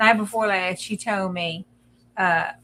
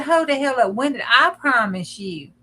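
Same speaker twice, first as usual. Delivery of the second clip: imitating sassy Alexa; 2 semitones higher than usual. Retelling what Alexa snapped at her, mock sassy. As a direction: throw it back like an offended gadget. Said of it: "No, no lie. That's a quote".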